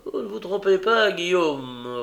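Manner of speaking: high-pitched, concerned agreement; worried. A narrator's reading. Fagin answers the brigand about Nancy, worried. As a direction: agree uneasily, voice lifted. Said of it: "répondit le juif d'un air soucieux".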